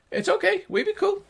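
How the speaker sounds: very high, placating gnome; gnomish voice. Acted. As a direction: soothe someone in a tiny high voice. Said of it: "the two high-pitched gnomish voices".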